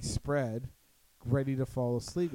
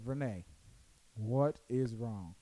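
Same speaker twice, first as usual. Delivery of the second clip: retold patient concern; 3 semitones lower, slower than usual. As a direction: imitate patiently coaxing a drunk friend. Retelling patient question to friend.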